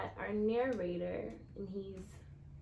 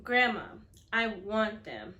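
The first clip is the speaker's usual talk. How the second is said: louder, drawn-out plea to grandma; pleading boy; 8 dB louder than usual. Acted. Boy asking his grandma for the shoes, a touch of pleading. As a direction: beg like a kid who wants them badly.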